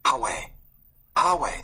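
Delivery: rising high call; a boy calling up the stairs, high. A narrator's reading. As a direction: call out to him, reaching high. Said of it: "the boy called".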